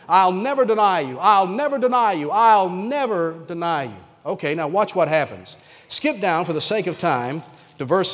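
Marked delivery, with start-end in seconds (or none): 0.1-4.0 insistent repeated vow, slowing on the last; vehement protest. Acted. Peter vowing over and over to Jesus, vehement. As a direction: keep insisting, drawing out the final repeat. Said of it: "He kept saying over and over again".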